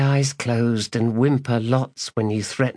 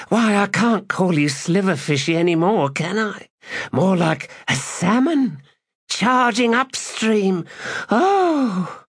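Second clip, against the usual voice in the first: ecstatic woman; 12 semitones higher than usual. Acted.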